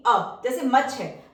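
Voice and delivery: मच में छोटा अ धीरे और साफ़; मच के अ को खींचकर बताओ; slow vowel demo. Shown as a demonstration. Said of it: "इसको हम यू नहीं". (मच का अ धीमे)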